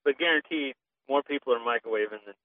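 real Southern twang, arguing the point; strong Southern accent. Real, not acted. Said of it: "your Southern accent came out really strong".

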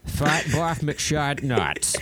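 slow unvoiced whisper; mock whisper. Joking with the co-host, slow nonsense whisper. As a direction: whisper it like a secret.

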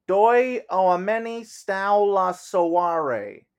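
slow, careful English tourist reading Romanian; halting phrasebook tourist. Acted. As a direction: sound out each Romanian word from a phrase book. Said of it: "As if an English tourist, first in Romanian".

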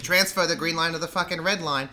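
lightly hammed Boston accent; sweary Boston directions with approximate vowels; mock Boston accent; Boston accent attempt. Shown as a demonstration. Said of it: "I can't do some of the vowels".

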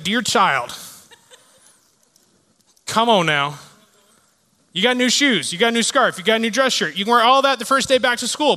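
a hint of a stern grandma, not sweet; lightly voiced grandmother scolding, not sweet. Grandma scolding a sulking grandson, lightly stern. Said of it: "never said sweet like".

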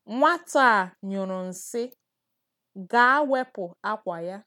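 slow, careful, every syllable clear; over enunciating. Shown as a demonstration. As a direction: spell out "Nwata a nyụrụ nsị" slowly, syllable by syllable. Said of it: "let me say that slowly again".

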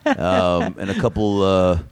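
slow, halting celebrity ordering lunch; lightly voiced Tony Danza ordering; Tony Danza impression. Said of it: "I'm Tony Danza".

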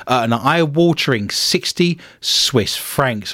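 "eye-watering" leaned on within a slow phrase; slow down and put the weight on "eye-watering"; stress on eye-watering. Real, not acted. Host reading the coffee price, stress on "eye-watering". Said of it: "emphasis on the word eye-watering".

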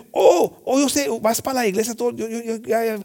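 high, dismissive put-on whine; mock the churchgoer's excuses; mimicking people who brush off churchgoing, high and dismissive; mocking whiny voice. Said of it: "muchos dicen".

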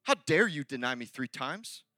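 put-on accusing tone; mock indignation. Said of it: "he's not like".

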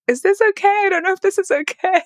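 mock anxious publicist. Publicist fretting in the smoky studio, high mock anxiety. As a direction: squeak it out like a nervous handler.

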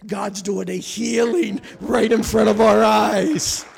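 loud, triumphant proclamation; exultant preaching. Real, not acted. Preacher telling church of a healing seen firsthand, exultant. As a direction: proclaim it to the whole church, loudly.

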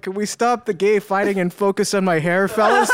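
amused, exasperated request; half-laughing, asking them to refocus; laughing plea. Retold or imitated. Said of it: "I'm like".

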